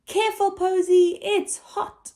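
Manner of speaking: a light touch of a caring parent; caring warning. Acted. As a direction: warn the little one gently about the hot oven. Grown-up warning Posy.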